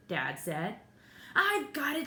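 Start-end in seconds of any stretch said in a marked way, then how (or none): 1.3-2.1 sudden idea. A narrator's reading. Jimmy gets a sudden idea.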